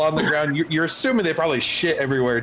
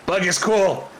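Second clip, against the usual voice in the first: higher kobold voice; 6 semitones higher than usual. Acted. Kobold approving of Bug to the others, higher voice. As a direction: chime in as an eager kobold.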